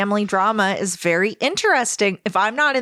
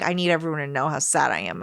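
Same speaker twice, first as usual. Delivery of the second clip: mock sad; 4 semitones lower, 3 dB quieter, faster than usual.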